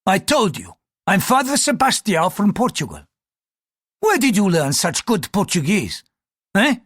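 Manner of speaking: high-pitched, testy interrogation; insist, then press him for answers; affronted priest; indignant priest. Acted.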